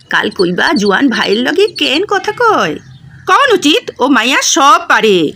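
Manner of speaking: getting hot under the collar, not yet shouting; understated angry scolding of the son-in-law; heated reply. Acted. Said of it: "গরম হয়ে উঠে বলে".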